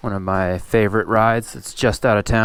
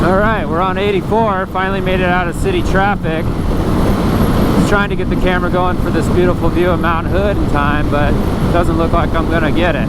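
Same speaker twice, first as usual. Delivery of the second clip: raised, higher voice over wind; shouting over wind; 4 semitones higher than usual. Real, not acted. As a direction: project over the roaring wind. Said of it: "I'm not even sure if you can hear me over the wind noise".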